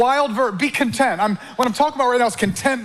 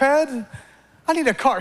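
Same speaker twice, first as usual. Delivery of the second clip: slow, higher drawn-out whine; drawn-out demand; 5 semitones higher, much slower than usual. Acted. Preacher's greedy man drags out his demand, slow. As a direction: stretch out the want.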